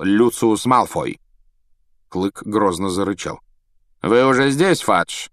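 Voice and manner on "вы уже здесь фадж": higher, cool and superior; Lucius sneering. A narrator's reading. Malfoy greeting Fudge, cool sneering surprise. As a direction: greet him with mock politeness. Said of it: "начал Малфой".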